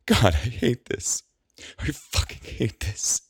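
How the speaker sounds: slow, high, sobbing into a breathy end; crying in frustration. A narrator's reading. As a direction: grit it out through the tears. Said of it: "rocking back and forth as she cries".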